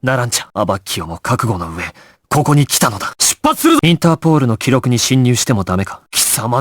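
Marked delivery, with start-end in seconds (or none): 3.2-3.8 commanding shout. Acted. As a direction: shout the order to move out. Commanding the team to leave. (号令の叫び)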